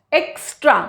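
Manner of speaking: "एक्स्ट्रा" with the X as a crisp k-s; KS sound. Shown as a demonstration. Teacher recalling the K-S rule, KS sound in "एक्स्ट्रा". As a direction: say "एक्स्ट्रा" with an unvoiced "ks" in it. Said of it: "एक्स का था के एस".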